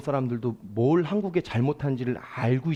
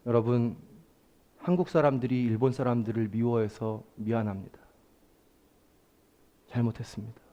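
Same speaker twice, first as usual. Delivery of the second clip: sincere apology; 6 semitones lower, 4 dB quieter than usual. Retold or imitated. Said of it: "이런 얘기를 하시더라고요".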